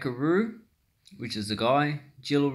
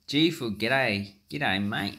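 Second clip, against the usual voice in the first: broad Aussie g'day; slower than usual. Shown as a demonstration. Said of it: "That's how you bloody say it".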